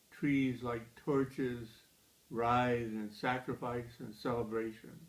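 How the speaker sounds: measured poem recital with deliberate pauses; poetry reading. Acted. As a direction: read the poem line by line, letting each phrase stand. Reads own poem aloud.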